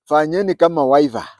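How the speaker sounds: imitating a Kikamba accent, "wiper" as "waiva". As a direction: mimic a Kikamba speaker saying "waiva" for "wiper". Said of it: "to pronounce it in a Kikamba accent".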